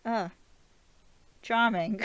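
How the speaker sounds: high, loud mock-miffed remark; quoted character. Vlogger as Stephen flipped off while driving, high-pitched mock offence. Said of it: "He's like".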